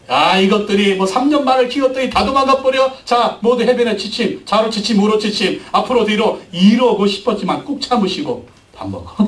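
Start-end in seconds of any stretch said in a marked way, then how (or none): 0.1-6.4 hint of a barking drill sergeant; mock drill sergeant. Jesus's imagined inner voice drilling disciples, mock commands. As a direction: order the disciples around like a sergeant, hammed up. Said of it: "그때 예수님의 속마음".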